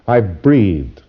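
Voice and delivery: dry sarcastic retort; mildly sarcastic client answer. Retold or imitated. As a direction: toss it back with sarcasm. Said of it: "Very sarcastic, see?".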